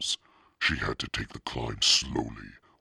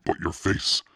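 raised, louder startled protest; stammering; 5 semitones higher, 6 dB louder than usual. A narrator's reading. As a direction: blurt it haltingly, mildly shaken. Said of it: "Noah stammered".

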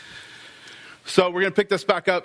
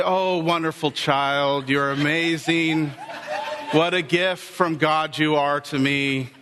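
mock calm parent; 3 semitones lower than usual. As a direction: pretend to be the endlessly calm parent, tongue in cheek. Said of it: "We're calm. We breathe. We say".

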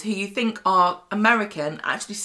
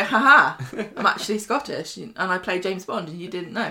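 mock gloating reveal. Stealth Scottish actor revealing himself to fans, mock triumphant. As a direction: play a lightly gleeful gotcha. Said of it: "they sort of burst out and go".

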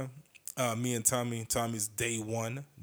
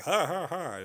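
mock crowd laughter; 7 semitones higher, 5 dB louder than usual. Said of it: "the crowd was like".

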